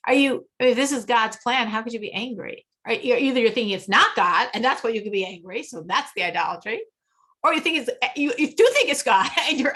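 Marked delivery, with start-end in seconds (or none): none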